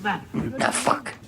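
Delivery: breathy whispered command. Pretend. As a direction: hiss it under your breath. Line repeated by the other speaker.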